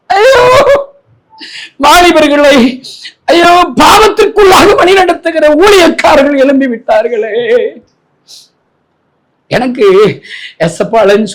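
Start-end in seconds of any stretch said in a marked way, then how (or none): 0.1-7.3 high preaching wail; anguished lament. Real, not acted. Preacher grieving over ministers leading youth astray, anguished. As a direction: wail it out in a raised pitch.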